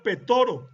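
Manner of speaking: Petoro as the Japanese form of Pedro; Japanese pronunciation. Shown as a demonstration. Lecturer listing Pedro in other languages, Japanese pronunciation Petoro. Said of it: "en japonés se pronuncia".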